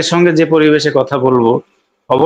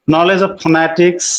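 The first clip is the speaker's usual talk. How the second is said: very slow and a bit higher; slow emphatic heading; 4 semitones higher, much slower than usual. Shown as a demonstration. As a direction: stretch the heading out for students. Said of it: "teacher announcing point five".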